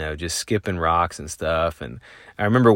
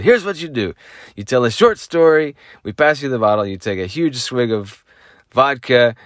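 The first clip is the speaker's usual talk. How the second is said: high, loud mock Ukrainian accent; imitating a Ukrainian guy's accent, high and loud; 6 semitones higher, 5 dB louder than usual. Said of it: "In Ukraine, we tell stories".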